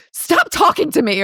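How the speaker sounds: Jody lashing out. Retold or imitated. Jody takes it out on poor Mac, mock snapping. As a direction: imitate taking it out on someone. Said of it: "takes it out on poor Mac".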